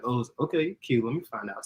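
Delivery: a hint of a masculine flirting voice. Shown as a demonstration. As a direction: lightly play the unhurried guy, softly. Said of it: "more masculine voice".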